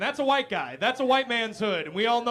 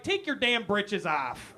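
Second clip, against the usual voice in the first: slower, flat Midwestern mom scolding; a mock Midwest mom ordering him, slowed down; slower than usual. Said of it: "so it's more like".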